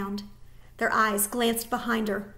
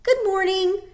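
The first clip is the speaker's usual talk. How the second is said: careful greeting; 10 semitones higher, 6 dB louder than usual. Acted. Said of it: "she said carefully to the soldiers".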